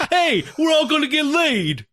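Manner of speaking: high, slow party-crasher impression; Rodney Dangerfield. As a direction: announce it big and drawn out, comic. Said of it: "Rodney Dangerfield comes in and says".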